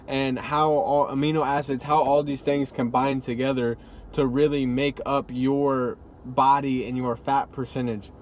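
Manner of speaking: talking while chewing gum; words round a piece of gum. Real, not acted. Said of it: "I'm chewing gum".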